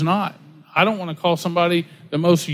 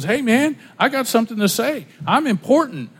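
lightly mocked preacher, pitched up; self-important pastor; 5 semitones higher than usual. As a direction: imitate a pastor full of himself, higher voice.

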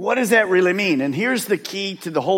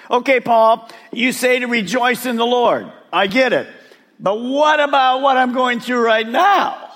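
objecting churchgoer; 4 semitones higher than usual. Retold or imitated. Congregation member protesting to Paul, mock pushback. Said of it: "they're gonna say something like this".

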